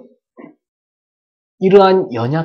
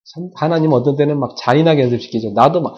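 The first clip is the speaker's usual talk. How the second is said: ordinary delivery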